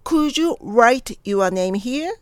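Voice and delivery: slow, deliberate model sentence with 'write' eased in from an 'oo'; drawn-out R. Shown as a demonstration. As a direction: round into an 'oo' before the R of 'write'. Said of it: "うの発音しても練習の時は構いません". (「write」を「う」の口からゆっくりRへ)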